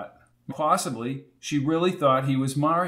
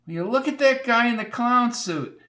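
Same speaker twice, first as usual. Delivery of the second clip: put-on old landlady; 9 semitones higher than usual. A narrator's reading. Landlady laughing at TV.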